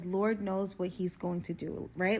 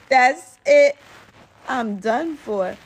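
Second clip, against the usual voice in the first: mock despair; 5 semitones higher, 14 dB louder, much slower than usual. Dramatic despair after laughing.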